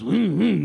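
little car revving noise; short voiced engine hums; imitated engine rev. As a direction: hum like a small engine revving.

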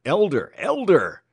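loud, high desperate shout; high yell to be recognized; desperate gasped cry. A narrator's reading. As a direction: cry out your name urgently. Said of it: "he gasped".

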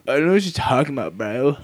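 quick, dismissive brush-off; guy brushing her off, quick and dismissive; fast denial. Retold or imitated. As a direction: rattle off a lazy denial. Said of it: "And he's like".

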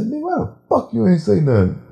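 high-pitched indignant demand; retold angry scolding. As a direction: re-enact berating someone. Acted angry confrontation in story.

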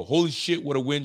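excited read. Retold or imitated. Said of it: "I think he's saying".

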